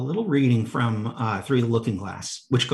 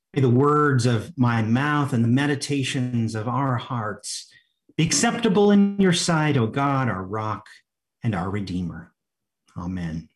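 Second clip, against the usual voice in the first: opening prayer. Acted. Preacher leads the congregation in prayer before the sermon, prayerful.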